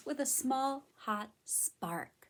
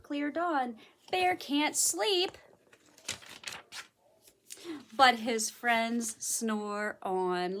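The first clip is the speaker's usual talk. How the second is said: lilting read-aloud, slowing toward the end; picture-book storytelling; story narration; 2 semitones higher, 4 dB louder than usual. A narrator's reading. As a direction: read to little children, drawing out the last line.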